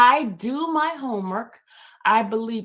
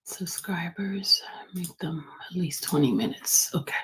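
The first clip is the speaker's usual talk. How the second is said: whisper; 2 semitones lower than usual. Real, not acted. Host whispering while editing.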